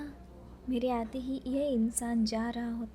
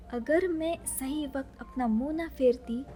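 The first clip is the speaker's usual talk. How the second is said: ordinary delivery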